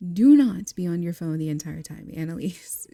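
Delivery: a mock telling-off with the do not punched loud; stern warning. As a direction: scold her firmly like a big sister. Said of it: "and she's like".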